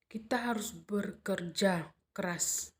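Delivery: slow and level, "Kita harus bekerja keras" with no rise or fall; even, steady tune on every word; flat intonation. Shown as a demonstration. Teacher demonstrating flat intonation, slow and level. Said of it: "intonasinya datar".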